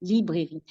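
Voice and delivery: librairie in French, three syllables lee-breh-ree; librairie, each of its three syllables sounded; French pronunciation. Shown as a demonstration. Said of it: "it has three syllables".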